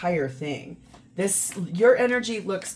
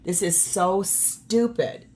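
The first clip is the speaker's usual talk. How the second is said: slow, exasperated put-on voice; drawn-out, fed-up complaint; fed-up figure; slower than usual. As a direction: voice the card figure who is totally done. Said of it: "and the other one's like".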